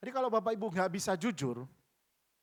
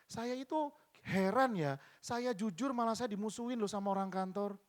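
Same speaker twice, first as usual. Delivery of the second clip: higher-pitched, lightly voiced complaining congregant; bewildered woman's testimony; 6 semitones higher than usual. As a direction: retell her puzzlement in a higher voice. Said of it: "dia bilang gini".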